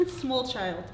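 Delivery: put-on light Slovak accent; a hint of a Slovak accent. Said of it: "I'm going to try to in, uh, Slovak accent".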